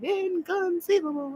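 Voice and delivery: high, slow drawn-out impression voice; a lightly voiced movie villain's outburst; movie quote impression. Streamer suddenly quotes a film line, high and drawn out.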